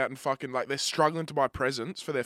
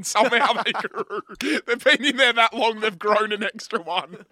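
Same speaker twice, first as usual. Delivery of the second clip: laughing joke; 8 semitones higher, 7 dB louder than usual. Real, not acted. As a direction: crack up at his own silly joke. Joking about the condoms multiplying.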